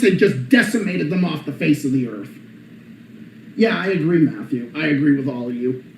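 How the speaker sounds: low, soft hoarse smoker rasp. Real, not acted. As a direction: talk with a voice gone raw. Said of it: "I sound like a fucking smoker now".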